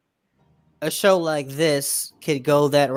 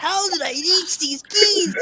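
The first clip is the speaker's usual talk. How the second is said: high, slow wail of a desperate teacher; hammed-up crying plea; mock despairing teacher; slower than usual. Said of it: "where Cartman teaches".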